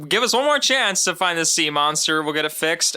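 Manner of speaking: high, breezy mock plea; mock pleading. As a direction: make light of begging for another chance. Mocking the characters' easy fix.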